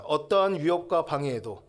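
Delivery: lead-in for repetition. Shown as a demonstration. Preacher gives the congregation a line to repeat, projected. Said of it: "한번 따라하겠습니다".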